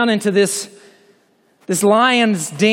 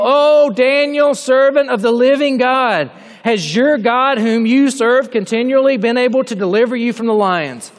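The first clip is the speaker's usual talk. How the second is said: anguished cry; 5 semitones higher than usual. Acted. King at dawn calling into the lions' den, anguished cry. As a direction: call out to Daniel in anguish. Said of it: "he cried out in a tone of anguish".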